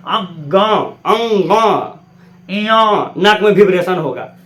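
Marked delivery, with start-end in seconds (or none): 0.1-3.1 अंगा and इया drawn out through the nose; nasal sound demo. Shown as a demonstration. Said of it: "नाक बोल के बोलो". (नाक से बोलकर अंगा, इया)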